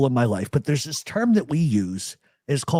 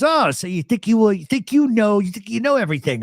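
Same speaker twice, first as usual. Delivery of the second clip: higher-pitched mock accusation; imitated confrontation; 6 semitones higher than usual. Retelling a friend's phone call, confrontational. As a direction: challenge like the annoyed friend, pitch raised.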